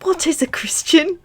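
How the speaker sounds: put-on innocent, high-pitched child's question. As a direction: ask like a wide-eyed little boy. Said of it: "Harry queried innocently".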